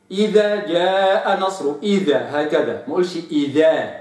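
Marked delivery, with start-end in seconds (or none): 0.1-1.7 إذا said slowly with a clear final vowel; correct recitation. Shown as a demonstration. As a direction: recite "إذا جاء نصر" slowly and cleanly. (تلاوة صحيحة متأنية)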